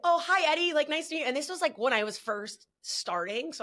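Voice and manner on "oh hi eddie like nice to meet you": higher sweet timid greeting; imitating her younger timid self; shy sweet self. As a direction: pitch it up, polite and shy. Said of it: "I was like".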